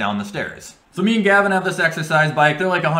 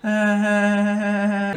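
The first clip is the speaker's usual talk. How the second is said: awkward hesitation; 7 semitones higher than usual. Retold or imitated. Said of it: "awkwardly, uncomfortably laughing".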